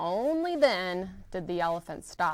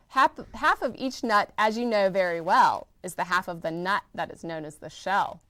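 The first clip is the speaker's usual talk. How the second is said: laughing; 2 semitones higher, 4 dB louder than usual. Acted. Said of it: "said with a laugh".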